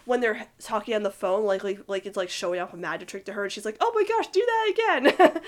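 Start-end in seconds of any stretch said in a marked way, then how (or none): 3.8-5.4 higher and louder, laughing through it; thrilled friend begging for more; delighted laugh. Retold or imitated. Ronnie Anne delighted on the phone.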